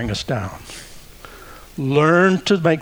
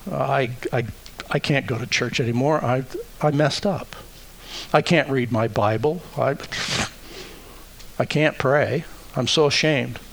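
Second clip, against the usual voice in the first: soft, halting, ashamed stammer; stammering shame; 5 dB quieter than usual. Acted. A guilty believer afraid to go to church, stammering quietly. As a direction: stumble over the words in quiet shame. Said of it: "That's the accuser".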